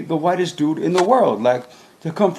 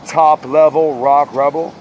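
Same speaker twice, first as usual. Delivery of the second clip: hype shout; 6 dB louder, slower than usual. Acted. Hype closing call.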